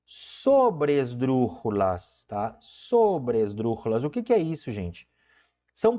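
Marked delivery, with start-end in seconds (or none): 0.1-4.0 slow term. Shown as a demonstration. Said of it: "o que a gente chama de sobresdrúxulas".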